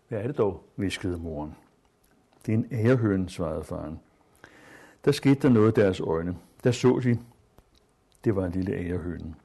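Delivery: measured literary read-aloud voice; story reading. Acted. Teacher reading a wartime story aloud to students, measured. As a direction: read the passage to the class with care.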